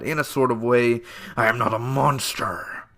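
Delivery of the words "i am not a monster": breathy whisper, no voice; whispered quote. Retold or imitated. Fisk asking Vanessa if he's a monster, whispered. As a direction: hush it like a confession. Quoting Fisk's line.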